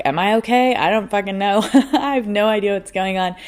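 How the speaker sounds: high, flustered "am I okay"; a touch of panic; panicked reply. Retold or imitated. Retelling her panicked answer.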